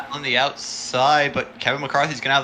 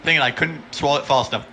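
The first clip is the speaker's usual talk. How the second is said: talking through a mouthful; words around a bite of food; mouth full; faster than usual. Real, not acted. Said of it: "I had food in my mouth".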